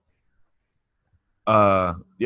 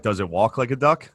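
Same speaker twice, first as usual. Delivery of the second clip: half-shouted, rising to the end on duck; mock shouted question. Friend jokes about Brazil law with a half-shouted question. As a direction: call it out like a mock Brazilian bro. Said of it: "It's like".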